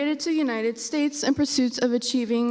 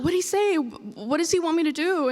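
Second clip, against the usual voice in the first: urgent mom; 5 semitones higher than usual. Retold or imitated. Mom anxiously quizzing the child.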